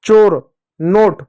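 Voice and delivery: चोर, नोट said slowly and clearly, word by word; carefully spelled-out words; slow dictation. Shown as a demonstration. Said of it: "जैसे मैं बोलूँ मोर".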